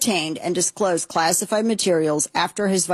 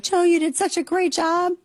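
mocking Jill Biden; 10 semitones higher than usual. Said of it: "she ran out and was like".

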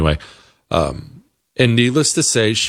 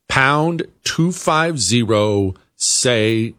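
each digit slow and separate; slow down on the number; slow, spelled-out number; 2 semitones higher, much slower than usual. Shown as a demonstration. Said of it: "repeats number slowly".

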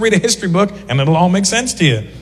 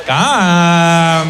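convincing Indian parent. Retold or imitated. Indian parent convincing a kid, drawn-out Indian-accented coaxing. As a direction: COME hugely stretched in an Indian accent. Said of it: "They'll just take one word and extend it".

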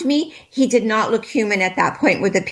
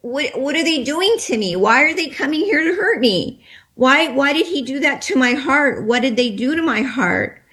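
frightened pleading; 4 semitones higher than usual. Retold or imitated. Pleading questions to the spiritual man.

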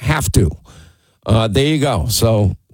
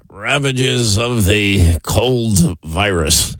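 imitating Rush; 3 semitones lower, much slower than usual. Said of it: "Remember Rush used to say".

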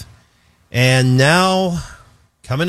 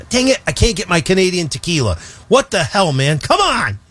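mock frustration; 5 semitones higher than usual. Joking about losing Canadian tequila.

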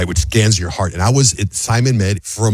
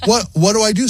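high, sweet mock wife voice; lightly mocking impression of his wife; imitating wife; 11 semitones higher than usual. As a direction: play the wife, pitched way up and chirpy. Wife voiced in retold story.

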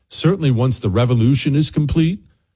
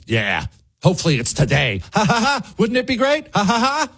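higher, hammed-up cackling; mock laughing agreement; 9 semitones higher than usual. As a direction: fake gleeful laughter mocking them. Mocking laughing partisans.

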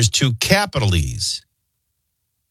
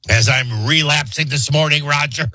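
blocked nose, congested voice; talking through a stuffed-up nose; stuffy nose; 4 semitones higher than usual. Real, not acted. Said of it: "I'm so stuffy".

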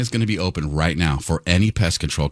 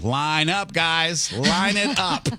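excited; 9 semitones higher, much slower than usual. Real, not acted. Calling out to pest companies.

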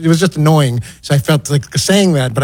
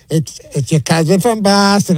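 lightly put-on Boston accent, slow; mock Boston accent; 2 semitones higher, slower than usual. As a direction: tease the guys with a half-hearted Boston accent. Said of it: "making fun of, like, the, the Boston accent".

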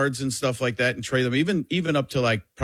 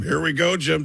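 Tony Romo impression; 4 semitones higher than usual. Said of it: "I've changed it from".

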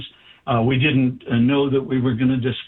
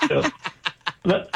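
normal talking voice

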